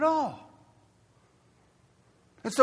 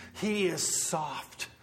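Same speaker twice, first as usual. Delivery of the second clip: softer and slower; 4 semitones lower, 8 dB quieter, much slower than usual. Shown as a demonstration. Preacher showing how Jesus spoke to the penitent, softly. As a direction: let the word soft go gentle. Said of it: "With the penitent".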